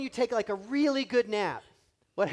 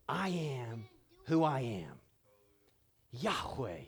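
voice of God; 5 semitones lower, slower than usual. Acted. God's voice answering Moses.

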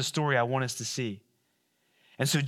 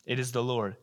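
hushed; 2 semitones lower, 5 dB quieter than usual. Acted. Peter hearing the words, repeated softly. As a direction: let it sink in quietly. Retold quietly second time.

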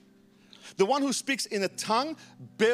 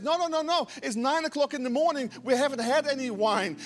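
higher-pitched insistent protest; animated, mildly indignant rebuttal; protesting denial; 5 semitones higher than usual. Retold or imitated. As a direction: play Peter brushing off an accusation. Peter rebutting the mockers' accusation.

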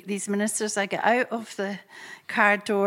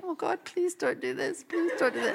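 laughing plea; 7 semitones higher, 4 dB quieter than usual. Retold or imitated. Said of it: "drunk in the spirit and laughing".

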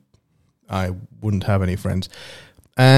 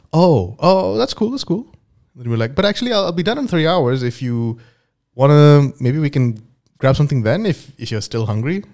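Anna's voice; 5 semitones higher than usual. Acted. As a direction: play shy Anna, pitched up. Acted dialogue, Anna voice.

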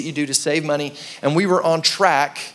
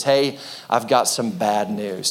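mechanic breaking bad news; 5 semitones lower, slower than usual. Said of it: "He says".

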